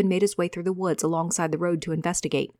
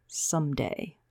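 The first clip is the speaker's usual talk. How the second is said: softer, low and grim; quiet vow; 3 semitones lower, 6 dB quieter, slower than usual. Acted. Javen glaring at Micah, soft and grim. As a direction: promise it under your breath. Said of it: "Javen said quietly".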